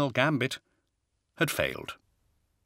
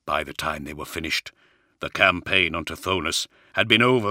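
Johnson's voice; 3 semitones lower than usual. Acted. Johnson continues explaining.

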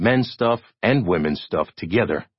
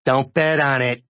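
higher-voiced, gloomy reporter; 6 semitones higher than usual. A narrator's reading. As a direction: say it glumly in a raised character voice. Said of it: "his tone gloomy".

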